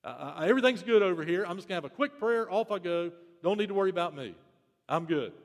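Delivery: quick, casual, brushing it off; breezy self-assured. Retold or imitated. Believer tossing off a quick prayer, breezy and casual. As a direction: rattle it off, no time to stop. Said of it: "The first one is".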